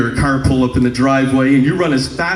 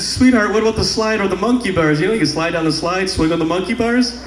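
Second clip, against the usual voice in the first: higher-pitched, hopeful coaxing; coaxing dad; 4 semitones higher than usual. Retold or imitated. Dad steering his daughter to the slide, coaxing. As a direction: talk a small child into something else, pitched up.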